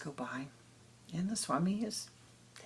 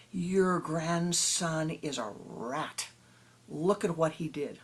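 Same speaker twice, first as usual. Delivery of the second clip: louder, slow, jabbing villager accusation; angry accusation; 4 dB louder, slower than usual. Acted. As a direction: spit it out like an outraged neighbour.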